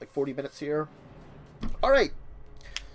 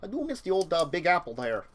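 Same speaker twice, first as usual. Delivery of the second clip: chatty neighbor. Acted. GM voices Ryan NPC.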